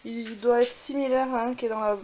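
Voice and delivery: slow, drawn-out hesitation while remembering; hesitant, slowly recalling a name; thinking aloud. Real, not acted. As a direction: stretch the words as you search your memory. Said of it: "Je suis en train de réfléchir".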